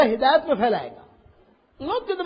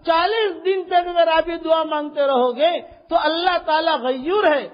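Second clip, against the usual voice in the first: preaching shout. Real, not acted. Preacher guarantees his promise.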